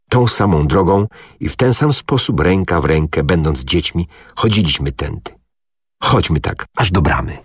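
ordinary delivery, nothing marked

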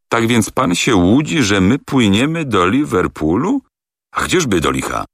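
mock the captain's delusion; voiced through teeth. A narrator's reading. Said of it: "wycedził przez zęby".

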